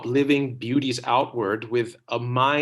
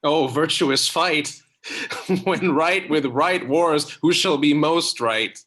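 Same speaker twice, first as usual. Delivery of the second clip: louder joyful exclaim; excited; 3 semitones higher, 5 dB louder than usual. Acted. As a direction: rise with delight.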